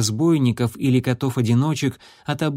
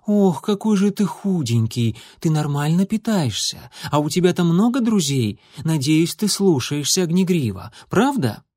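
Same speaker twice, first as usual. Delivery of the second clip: higher, eager rush of questions; fussing mother; 4 semitones higher than usual. Acted. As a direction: fuss over the kitten. Doting mother's flood of questions.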